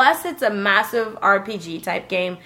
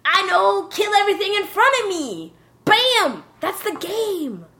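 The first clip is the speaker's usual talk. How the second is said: high, cocky gamer boast; cocky past self; 6 semitones higher than usual. Retold or imitated. Retelling his overconfident plan, cocky high boast. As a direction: brag like you'll breeze through it. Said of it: "because I thought".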